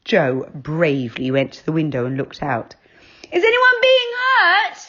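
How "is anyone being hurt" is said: high, loud call into the night. A narrator's reading. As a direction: call out the window, brave but scared. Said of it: "he called".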